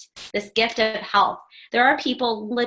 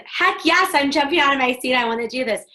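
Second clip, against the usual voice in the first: mock eager cheer, higher pitch; eager yes; 5 semitones higher than usual. Coach voices a keen new recruit, hammed-up excited. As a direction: play the listener jumping at the offer.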